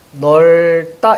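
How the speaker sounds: 넓다 said as 널따, tense 따; demonstrated pronunciation. Shown as a demonstration. Teacher showing students how 넓다 sounds, demonstrated pronunciation. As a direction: draw out 널, then a tense 따. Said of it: "이 넓다 같은 경우는 당연히".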